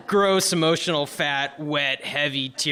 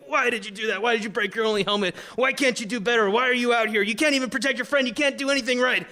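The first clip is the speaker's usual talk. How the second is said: higher-pitched mock scream without full volume; screaming self-blame; 5 semitones higher, faster than usual. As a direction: pile up the accusations against yourself, pitch climbing. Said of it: "negative self-talk starts, and I'm screaming".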